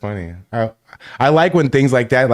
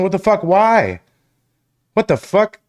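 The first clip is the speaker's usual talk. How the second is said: higher-pitched incredulous swearing; baffled disbelief; 6 semitones higher than usual. Real, not acted. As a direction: react in real disbelief. Baffled by autocorrect.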